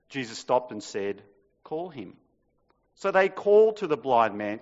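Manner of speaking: lively, dramatic Bible reading; scripture reading. Acted. Preacher reading the gospel to the congregation, dramatic. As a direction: read the passage out with feeling. Reads the gospel passage aloud.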